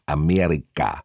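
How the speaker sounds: "Amerika" said softly, with mushy consonants; "Amerika" as soft as a burger bun; soft pronunciation. Retold or imitated. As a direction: imitate a soft, squashy "Amerika". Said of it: "Was sie so weich aussprach".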